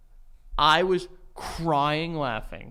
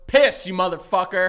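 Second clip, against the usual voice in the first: dog talking back; 6 dB louder than usual. Pretend. Imagines the dog answering back.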